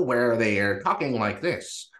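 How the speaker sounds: lightly put-on fifties radio accent; a hint of old American radio-play accent. Shown as a demonstration. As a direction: talk in a mild fifties radio-drama accent. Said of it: "they've got that, that accent".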